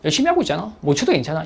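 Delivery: soft, gentle reassurance to yourself; calm yourself down quietly; a quiet pep talk to oneself; self-reassurance. Shown as a demonstration. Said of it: "이걸 계속 되뇌어줘야 돼".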